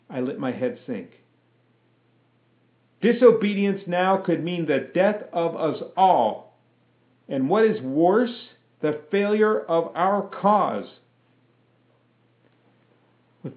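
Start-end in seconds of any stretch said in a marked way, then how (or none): 3.0-11.0 raised, higher stern lieutenant; stern officer. A narrator's reading. Lieutenant reprimanding the private before the lashing. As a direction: lecture him with cold authority.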